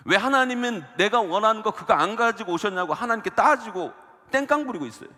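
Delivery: preaching. Acted. Preaching builds to full force.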